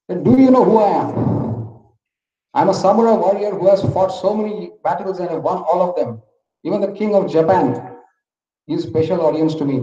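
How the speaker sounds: a proud warrior losing his temper; wild with rage. Acted. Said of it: "He gets wild".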